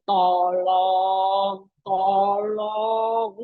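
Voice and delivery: lazy sing-song tolong, tolong; mock a careless, casual asking; half-hearted plea. Shown as a demonstration. Preacher mocking a limp, casual prayer. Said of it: "nggak mungkin memohonnya bilang gini".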